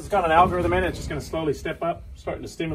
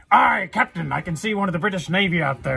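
a hint of a hammed-up pirate sailor, louder; pirate lookout; 2 semitones higher, 6 dB louder than usual. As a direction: call it down from the crow's nest like a pirate. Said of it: "he's like".

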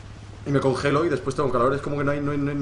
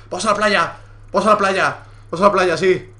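excited; 4 semitones higher, 5 dB louder than usual. Real, not acted. Excited to go to beach.

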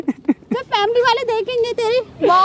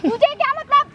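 loud defiance; 3 semitones higher than usual. Acted. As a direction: argue back heatedly at raised pitch. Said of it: "अरे धीरे बोल ले". (ऊँची आवाज़ में अकड़कर)

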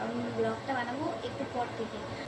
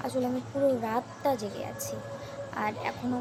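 hoarse, slow, worn-out voice; hoarse voice after staying up all night; 3 semitones lower than usual. Real, not acted. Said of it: "আমার গলাটা ভেঙে গেছে".

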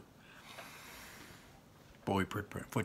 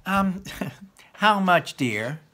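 Laurel; 8 semitones higher, 5 dB louder, slower than usual. Acted. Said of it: "Laurel said".

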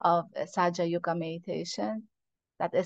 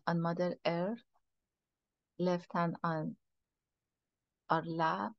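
guided meditation; 3 dB quieter than usual. Real, not acted. Teacher leading a group into meditation, soft guiding voice. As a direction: ease them inward, quietly and unhurriedly.

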